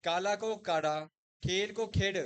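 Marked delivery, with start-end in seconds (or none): 0.7-1.0 काड़ा with a retroflex flap in place of ल; काड़ा, tongue curled back on the ड़; काड़ा for काला, Haryanvi style; Haryanvi pronunciation. Shown as a demonstration. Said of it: "Haryanvi में किस तरीके से प्रोनाउंसिएशंस करते हैं". 1.9-2.2 खेड ending in a retroflex ड, not ल; खेड for खेल, Haryanvi style; Haryanvi pronunciation. Shown as a demonstration. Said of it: "खेल ना बोलकर क्या बोलते हैं".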